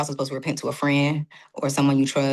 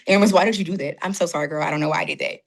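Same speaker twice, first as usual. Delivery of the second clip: lightly raised scolding of herself; mock self-scolding. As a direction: chide yourself, then apologize. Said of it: "that conversation with yourself".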